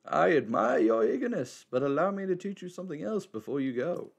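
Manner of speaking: lightly voiced wise old man; a hint of a cryptic elder.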